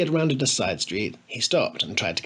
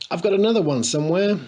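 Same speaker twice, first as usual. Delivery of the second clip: laughing; 7 semitones higher, 5 dB louder, faster than usual. A narrator's reading. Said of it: "gasped Harry between fits of laughter".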